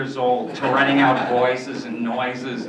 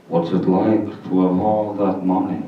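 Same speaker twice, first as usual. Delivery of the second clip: Lou Jacoby quote; 5 semitones lower, 3 dB louder than usual. Retold or imitated. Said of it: "he goes".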